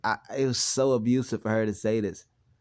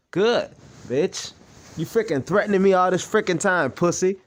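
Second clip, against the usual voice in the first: higher, louder furious ranting; angry rant; 6 semitones higher, 3 dB louder than usual. Real, not acted. Son rants in anger about mother's threats. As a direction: vent the rage at her.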